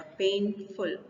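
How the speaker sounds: पेनफुल split in two, PAIN leading and "ful" falling away; first-syllable stress. Shown as a demonstration. Teacher giving an adjective example, पेनफुल stressed on PAIN. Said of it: "पहले वाले syllable पर जाएगा".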